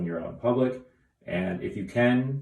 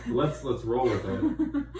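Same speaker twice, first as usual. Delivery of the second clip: laughing; 4 dB louder than usual. Real, not acted. Laughing during a retake.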